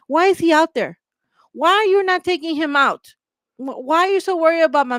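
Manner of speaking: indignant shouting at authorities; angry demand. Real, not acted. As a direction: demand answers, furious at the system. Angry rant about the attacker's release.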